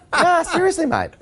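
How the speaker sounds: hammed-up Australian footy fan accent. Shown as a demonstration. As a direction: show off the Aussie accent he grew up with. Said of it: "Give us a little taste".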